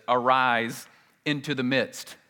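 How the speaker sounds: slow, weighty, each word drawn out; slow emphatic reading. Shown as a demonstration. Preacher reading the literal Greek to the congregation, slow and emphatic. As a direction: lean on arise, slowly. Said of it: "because literally it says".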